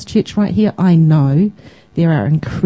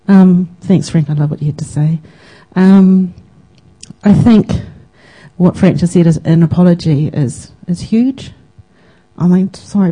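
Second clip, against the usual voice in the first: crying; 4 dB louder than usual. Real, not acted. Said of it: "I just can't stop crying".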